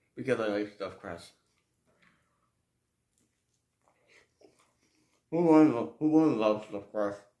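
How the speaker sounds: speaking with mouth full of food. Eating stuffed-crust pizza while talking, speak with your mouth full. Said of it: "I do apologize for talking with my mouth full".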